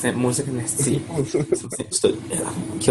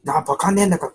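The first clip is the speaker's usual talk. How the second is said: higher-pitched mock scolding in Niigata dialect; 5 semitones higher, 3 dB louder, faster than usual. Shown as a demonstration. Guest demonstrating a bus warning, half-hearted Niigata dialect scolding. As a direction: try a rough Niigata telling-off. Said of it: "これを新潟弁で多分注意するとしたら".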